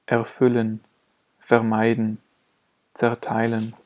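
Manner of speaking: prefix R spoken as a vowel in "erfüllen", "vermeiden", "zerteilen"; vocalic R. Shown as a demonstration. Teacher showing the prefixes er, ver and zer, vocalic R. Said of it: "wenn das R in den Vorsilben er".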